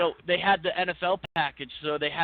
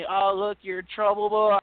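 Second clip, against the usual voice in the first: teasing heckle, rising louder at the end; needling retold jeer; mock taunting; 3 semitones higher, 3 dB louder than usual. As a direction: imitate bar regulars ribbing someone. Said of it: "they were busting on me".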